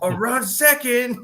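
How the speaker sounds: high, slow mock Asian accent, laughing; caricatured Asian accent through laughter; Master Splinter. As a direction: imitate a comic's exaggerated Asian-accent bit. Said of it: "did the most ignorant".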